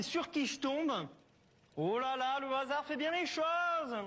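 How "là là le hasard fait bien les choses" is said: rising, drawn-out exclamation of mock surprise; feigned surprise. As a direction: play up a happy coincidence. Acts out feigned surprise at meeting.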